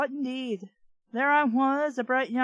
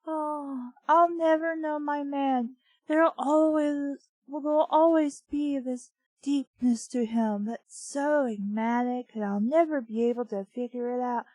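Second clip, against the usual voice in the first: mock swooning; 3 semitones higher than usual. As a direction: parody the swooning heroine. Swooning parody of narrator.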